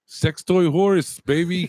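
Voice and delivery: slow, hammed-up caller impression; mock caller voice. Riffing on the caller, in a slow hammed-up voice. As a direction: lean into it, slow and cocky.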